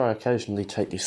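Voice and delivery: talking with a brush between teeth; words muffled round a brush held in mouth; mouth full. Real, not acted. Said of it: "I've got a brush in my mouth and I'm talking".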